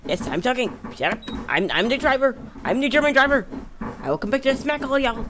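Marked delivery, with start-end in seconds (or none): 1.5-5.2 put-on German accent. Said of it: "I swear it was not a German accent".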